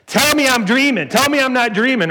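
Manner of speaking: high-pitched mock New York accent. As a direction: put on your best thick New York accent. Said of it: "this is my best New York accent".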